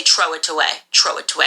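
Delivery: imitating grandma's throw with a plain t; grandma's pronunciation. Granddaughter imitating grandma saying throw. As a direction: throw said as tʰɹoʊ, a hard t for the th. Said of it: "Grandma, it's throw".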